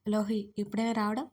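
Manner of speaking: plain reading voice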